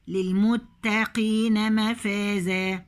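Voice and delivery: slow measured tajweed chant; slow Quranic recitation. Shown as a demonstration. Recites verse slowly.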